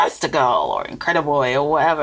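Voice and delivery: a hint of the stern fashion designer; Incredibles designer. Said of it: "she kinda goes".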